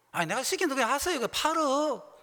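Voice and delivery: 높고 크게 밀어붙이듯; 빨리 몰아세우며 지시하듯; 다그치는 말투. Retold or imitated. 목사가 장로를 다그침. (재촉하듯 높고 빠르게)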